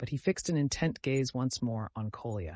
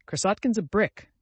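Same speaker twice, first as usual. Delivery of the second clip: cried out; 8 semitones higher, 5 dB louder than usual. Acted. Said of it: "cried a third voice".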